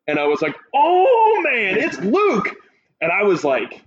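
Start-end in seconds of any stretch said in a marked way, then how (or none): 0.7-2.5 high, loud, drawn-out emotional cry of joy; retold holler. Fan watching the show hollers as Luke appears, overjoyed cry. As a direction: belt it out like you can't believe your eyes. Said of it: "I hollered".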